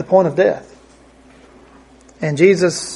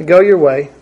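gentle reassurance. Retold or imitated. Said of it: "however Jesus said it".

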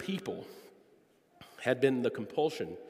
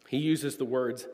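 ordinary talk

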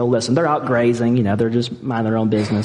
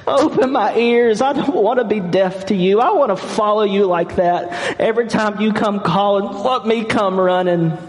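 prayer; 8 semitones higher than usual. Acted. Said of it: "I just say every day".

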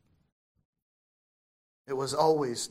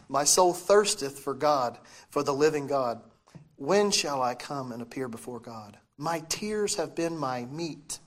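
scripture reading; 3 semitones lower than usual. Acted. Reads scripture slowly.

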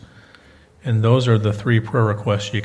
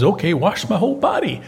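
higher-pitched eager Peter; eager overreaction; 6 semitones higher than usual. Acted. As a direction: jump to the other extreme, pitched up.

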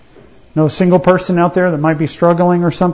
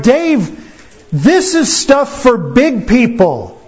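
higher, slow, talking down to little brother; mocking older brothers; 3 semitones higher, slower than usual. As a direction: brush him off like big brothers. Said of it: "They were like".

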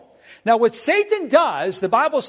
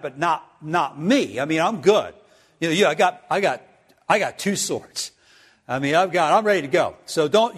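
lower, offhand and breezy, brushing off the warning; a lightly voiced cocky disciple, waving it away; self-confident Peter; 3 semitones lower than usual. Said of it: "Here is a man that has a lot of self-confidence".

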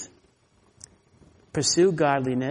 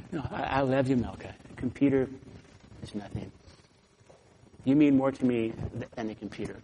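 tender reassurance; 3 semitones lower, 5 dB quieter than usual. Retold or imitated. Comforting crying neighbor.

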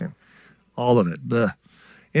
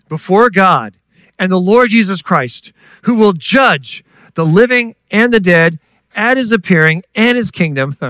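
raised, louder proclamation; preaching the verse loud and high; forceful scripture reading; 4 semitones higher, 4 dB louder than usual. Real, not acted.

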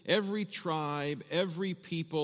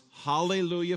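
heaven's cry; 4 semitones higher, 5 dB louder than usual. Retold or imitated. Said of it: "Heaven cries".

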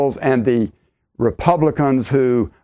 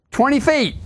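incredulous; 11 semitones higher than usual. Real, not acted. Scoffing at Gore's prediction.

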